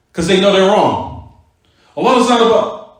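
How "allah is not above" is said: higher-pitched mock protest; evasive opponent. Opponent dodging the teacher's question, raised-pitch insistence. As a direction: lightly imitate a stubborn, repeated objection.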